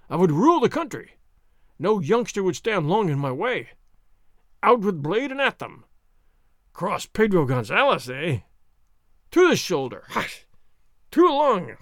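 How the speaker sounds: loud swaggering braggart; blustering sergeant. Acted. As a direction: boast it, bigger and bigger. Sergeant boasting, mock duel.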